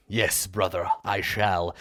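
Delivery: a hint of a stuffy English accent; lightly put-on British accent, half-hearted; mock English accent, barely done; shitty English accent. Shown as a demonstration. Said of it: "Try and be really good at a shitty English accent".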